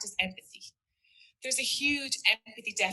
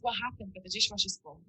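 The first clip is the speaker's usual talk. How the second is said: calm curious question. Shown as a demonstration. To a partner about the dishes, a calm curious question. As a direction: ask gently, without blame.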